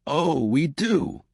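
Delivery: relaxed teasing confidence; cheerful. A narrator's reading. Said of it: "Bob said cheerfully".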